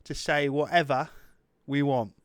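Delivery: British English, put on by request; British accent. Shown as a demonstration. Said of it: "Say it in British, please".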